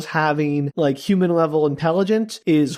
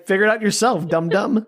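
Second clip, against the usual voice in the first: laughing mock retort; 4 semitones higher than usual. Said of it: "She could just say".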